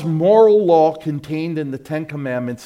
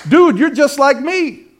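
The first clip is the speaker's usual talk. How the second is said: mock scoffing unbeliever; 11 semitones higher, 7 dB louder than usual. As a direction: drag it out like a scornful buddy. Unbeliever mocking hypocritical Christian.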